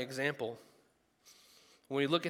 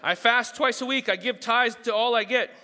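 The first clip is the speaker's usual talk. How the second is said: louder, higher, laughing brag; boasting Pharisee; 8 semitones higher, 9 dB louder than usual. Acted. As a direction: brag about fasting with a laugh.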